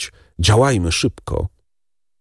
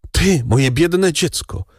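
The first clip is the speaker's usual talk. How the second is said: slow, higher lament; mother cries out over her poor child; crying out; 6 semitones higher, slower than usual. A narrator's reading. Matka woła nad biednym dzieckiem, wolno, żałośnie. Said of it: "zawołała Mercedes".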